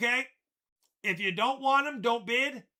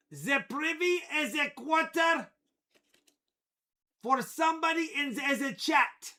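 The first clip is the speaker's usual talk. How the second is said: high, hammed-up German announcer; German accent; 3 semitones higher than usual. Hams up German accent announcing giveaway.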